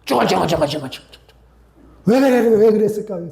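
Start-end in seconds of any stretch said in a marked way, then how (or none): 0.0-1.2 rapid repetitive mock muttering; imitated grumbling mutter. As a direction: grumble away to yourself in nonsense syllables. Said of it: "혼자서 찌꺼리는 거예요".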